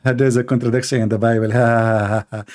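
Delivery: mock laugh. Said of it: "he's laughing like this guy".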